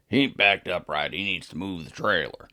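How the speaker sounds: gruff, loud-starting imitation of a grump; grumpy forklift driver, put-on voice. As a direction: imitate a grumpy dock worker complaining. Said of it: "we'll call Mister Grump".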